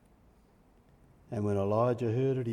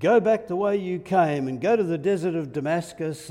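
loud, raised voice of God giving orders; loud, urgent marching orders; commanding; 4 semitones higher, 8 dB louder than usual. Acted. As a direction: send him off with loud, high authority. God sending Elijah back with orders.

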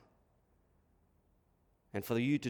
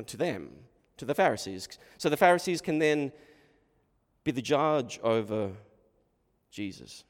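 ordinary talk, nothing marked

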